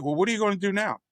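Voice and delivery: high-pitched voice for the wife; imitated wife.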